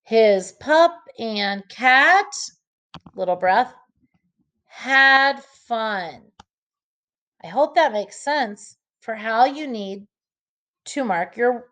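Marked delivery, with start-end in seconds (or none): 0.0-6.2 slow phrasing, breath after "cat"; phrase break before "had fun"; pause after cat. Shown as a demonstration. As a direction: read "His pup and cat", pause, then "had fun". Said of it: "this is where I take my breath".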